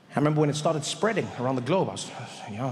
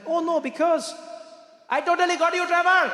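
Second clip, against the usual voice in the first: put-on Indian accent; 11 semitones higher than usual. Waiter gloating to Trevor he pranked him, high Indian accent.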